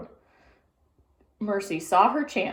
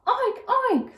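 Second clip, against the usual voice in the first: high oinks; happy pig oink; 4 dB louder than usual. A narrator's reading. Pig in the driver's seat oinks happily. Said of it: "said Mercy".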